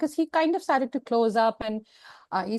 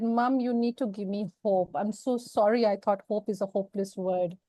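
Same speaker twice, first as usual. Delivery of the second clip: retold plea to mom; 4 dB quieter than usual. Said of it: "And I'm crying to her".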